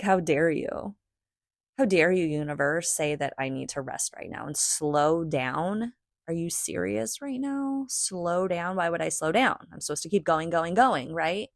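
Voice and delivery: hammed-up indignation with incredulous questions; mock offended. Adult arguing with the universe about resting, mock offended. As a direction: protest as if mildly scandalized. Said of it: "kids even get offended".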